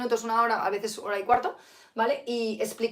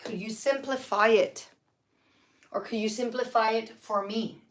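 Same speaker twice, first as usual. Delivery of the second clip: slow, careful could you simplify it; slow model phrase; slower than usual. Shown as a demonstration. Teacher modelling the question for students, slow and careful. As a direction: spell the question out slowly for learners. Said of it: "vamos a preguntarlo".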